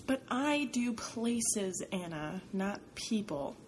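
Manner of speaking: slow, drawn-out, weary protest; groaning reluctance. Acted. Photographer groaning at a favor, slow and weary. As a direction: drag it out like he really doesn't want to. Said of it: "Jose groans".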